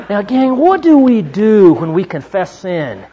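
preaching challenge. Real, not acted.

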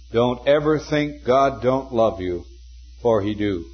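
earnest. Retold or imitated. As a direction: say it simply and earnestly, pausing before the end. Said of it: "The intense earnestness of this man".

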